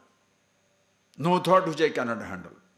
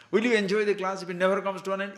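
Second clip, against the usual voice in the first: laughing; 6 semitones higher, faster than usual. Real, not acted. Teacher teasing class, laughing.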